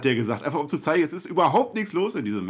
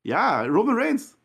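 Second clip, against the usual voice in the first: wrestling commentator; 6 semitones higher than usual. Pretend. Mock award announcement.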